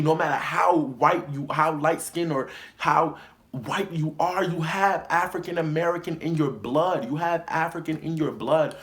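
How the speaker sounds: heated scolding. Retold or imitated. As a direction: lay into her for the racist joke. Heated retold lecture to coworker.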